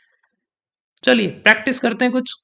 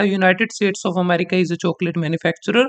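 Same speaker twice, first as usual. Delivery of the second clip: slow example read; much slower than usual. Shown as a demonstration. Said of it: "अगर मैं कहता".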